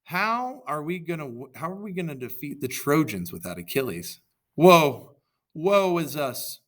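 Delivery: loud, high lamenting cry; wailing shout. A narrator's reading. A Greek soldier lamenting Achilles' death, loud high wail. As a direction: wail out in despair. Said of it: "One of the Greeks shouted".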